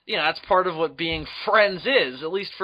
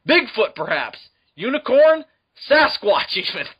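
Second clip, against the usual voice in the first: sarcastic Sarge; 7 semitones higher, 4 dB louder than usual. Retold or imitated. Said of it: "Sarge is like".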